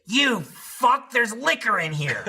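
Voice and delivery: a mother caught out by liquor; outraged mother. Retold or imitated. Mother realizing there's liquor in the drink, high and shocked.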